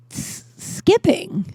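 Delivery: high, slow disbelieving echo; mock a nurse who can't believe it; drawn-out incredulous repeat.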